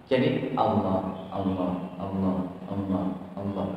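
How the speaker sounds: Allah, Allah, tongue touching the ridge on each lam; pronunciation demo. Shown as a demonstration. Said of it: "Ada dua lam".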